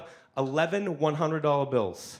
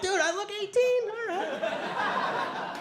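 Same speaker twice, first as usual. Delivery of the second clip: put-on squeaky teen protest; much slower than usual. Teen insisting he's older.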